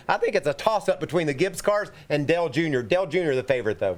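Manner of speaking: winded, short of breath. Real, not acted. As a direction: talk while catching your breath. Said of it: "You sound out of breath".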